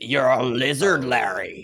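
slow, drawn-out British film impression; British accent. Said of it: "talk in a British accent".

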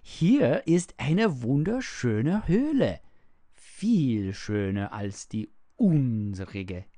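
high, loud wonder; astonished. A narrator's reading. Heinrich takes the open world for a cave, astonished. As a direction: marvel out loud like an amazed child. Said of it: "sagte er erstaunt".

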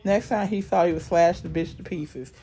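dramatic read-aloud narration; story narration. A narrator's reading. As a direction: read it like a gritty thriller.

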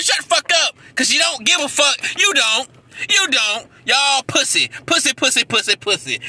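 loud angry rant; real heated scolding. Real, not acted. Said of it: "I'm just angry right now".

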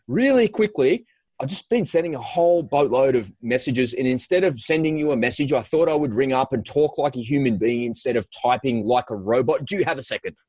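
upbeat cold-call patter; a touch of radio voice. Shown as a demonstration. Pitching a new contact by phone, lightly upbeat radio voice. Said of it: "my radio voice".

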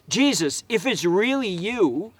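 tentative hedge in a retold plea; hedging, unsure. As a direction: say it as if not totally sure. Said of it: "He kinda hedged it a bit".

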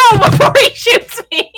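high-pitched pleading cry; urgent protest. Real, not acted. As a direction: cut in with a high, frantic objection. Player protests before being shot.

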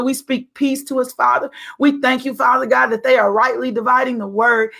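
fervent intercessory prayer. Acted. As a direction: pray over him with faith.

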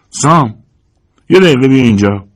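calling out. Acted. George calls Sam from the kitchen hatch, loud call. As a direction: call him from the next room. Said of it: "صدا زد".

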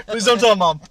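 high begging cry, laughing; loud pleading. Pretend. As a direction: wail it like a begging kid.

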